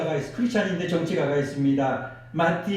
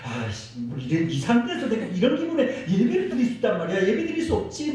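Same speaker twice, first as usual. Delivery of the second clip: grumbling; 3 semitones higher than usual. Retold or imitated. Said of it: "투덜거리면서 아직도 씩씩거리고".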